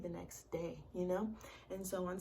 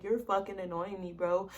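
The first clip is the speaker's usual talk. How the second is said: louder, fed-up "bro" at the end; annoyed snap; 6 dB louder than usual. Retold or imitated. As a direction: bite it out, pushed past your limit. Repeating the snap.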